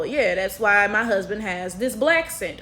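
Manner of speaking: ordinary delivery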